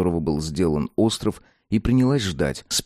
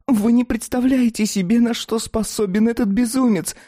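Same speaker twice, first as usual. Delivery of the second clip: high, angry raging voice; furious rant. Acted. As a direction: rant at the reckless fool. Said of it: "в ярости вскричала Фатида".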